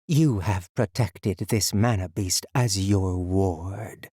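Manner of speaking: slow, stern motherly voice. Acted. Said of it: "both loud and soft, stern and motherly".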